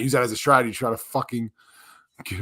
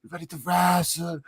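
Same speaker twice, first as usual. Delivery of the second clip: silly high voice; 7 semitones higher than usual. Pretend. Joking Dutch wrestler bit.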